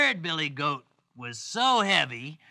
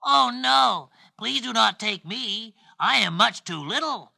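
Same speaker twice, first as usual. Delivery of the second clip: lightly voiced tiny goat, pleading; a touch of storybook alarm; pleading little goat; 4 semitones higher, 4 dB louder than usual. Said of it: "said the billy goat".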